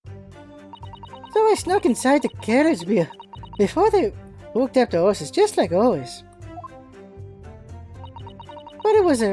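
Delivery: put-on Cockney street girl voice; a rough London urchin lass; man doing a woman's voice. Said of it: "It's not a girl voice in any way".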